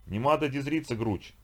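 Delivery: слегка выше, булькающая тарабарщина; булькни равнодушно, как студень; булькающий инопланетянин. Acted. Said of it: "булькнул". (булькающий голос инопланетянина)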